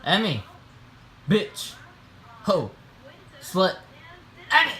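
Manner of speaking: calling a name across the room; sharp, repeated call for attention; calling Emmy over and over. Real, not acted. Calling out to someone.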